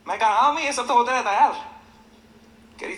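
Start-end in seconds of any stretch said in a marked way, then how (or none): 0.3-1.5 put-on brave voice. Son faking cheer on the phone so his worried mother won't know he cried, bright and brushing it off. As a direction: brush it off like nothing happened.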